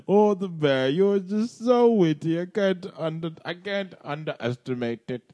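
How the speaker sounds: Bill Cosby impression. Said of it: "Mister Cosby's had quite".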